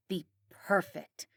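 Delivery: hushed intense whisper. A narrator's reading. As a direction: lean in and breathe it. Mom's intense advice.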